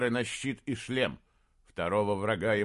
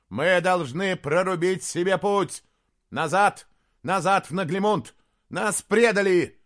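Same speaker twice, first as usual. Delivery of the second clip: commanding shout; 9 semitones higher, 8 dB louder than usual. Acted. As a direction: command the horn blown. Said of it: "закричал Джошуа". (принц кричит приказ трубить)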